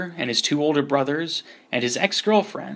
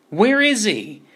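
higher, louder bubbling underwater call; 8 semitones higher, 5 dB louder, slower than usual. Acted. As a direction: call out through the water, bubbling. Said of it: "spoke through the water, the sounds bubbling out".

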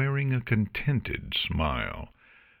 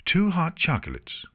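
high, firm order; stern; 11 semitones higher than usual. A narrator's reading. Artemis answering for Luna, stern. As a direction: order it sternly, no room for debate. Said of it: "Artemis replied sternly".

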